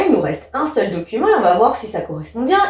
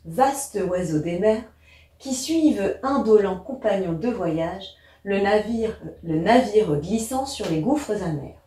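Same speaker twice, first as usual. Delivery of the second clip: poem reading; 2 semitones lower, 4 dB quieter than usual. Acted. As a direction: read the verse out evenly, voice lowered. Reads the poem aloud.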